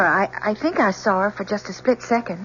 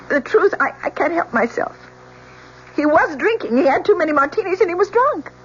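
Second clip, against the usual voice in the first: distraught outburst. Acted. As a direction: blurt it all out, unable to stop. Witness breaks down testifying.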